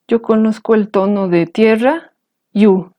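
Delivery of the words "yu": yu held on a low pitch. Shown as a demonstration. Teacher recalling a known low-tone word, low. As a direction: keep yu low. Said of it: "tiene tono bajo".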